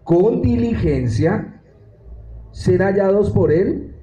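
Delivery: very slow, each phrase drawn out for the class; deliberate pedagogical reading, stretched out; slow teaching read. Shown as a demonstration. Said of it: "Vamos a leerlo muy pedagógicamente".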